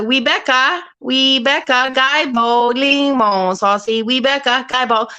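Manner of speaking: lightly imitated Cantonese mother's accent; sing-song calling out like a Cantonese mother; a hint of a Cantonese mother's accent. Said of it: "I can impersonate his mother".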